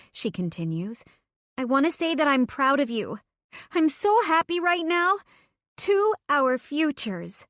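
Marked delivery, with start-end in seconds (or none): 1.6-7.5 high, bright tipsy toast; giddy friend toasting our futures; happy toast. Acted. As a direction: raise a glass, beaming and tipsy.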